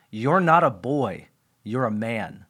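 hushed, heartfelt quote of a dad; earnest fatherly words. Retold or imitated. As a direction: let it land gently and seriously. Dad's solemn words retold.

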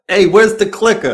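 high Southern twang calling out for the clicker; hammed-up Southern accent. Southern character asking Viv for the clicker, hammy. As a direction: whine for the remote like a hick. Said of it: "my Southern accent".

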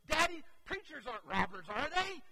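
put-on a worried little boy asking his dad; pleading child. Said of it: "he looks at me and he goes".

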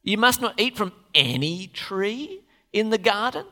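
lightly voiced tempting snake; weird serpent voice. Preacher retrying the serpent's question for the church, slow and sly. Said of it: "gotta be something like that".

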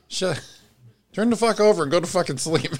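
high, loud barked order to go to sleep; mock angry yell. Retelling a partner's bedtime outburst, mock angry yell. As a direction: snap it out like a tired, fed-up partner.

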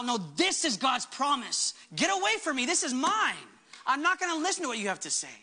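growling declaration. Retold or imitated. Pastor rebuking the accusing enemy, mock growling defiance. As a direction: stake your claim, push the accuser off. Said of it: "And I begin to growl".

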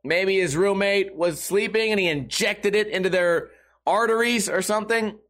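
normal talking voice

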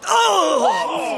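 high, drawn-out cry of disgust; appalled. Acted. Diners see photo of main courses, appalled. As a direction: recoil with a horrified groan.

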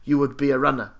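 firmly insistent, lightly Afrikaans-sounding impression; the speaker, accidental Afrikaans accent. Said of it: "I sound Afrikaans when I was doing that impersonation".

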